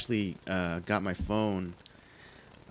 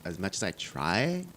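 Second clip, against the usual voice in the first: put-on Valley Girl upspeak; Valley accent; slower than usual. Showing off an accent that can't be lost, Valley upspeak. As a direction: play up the Valley accent with rising ends. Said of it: "if I can do a Valley accent".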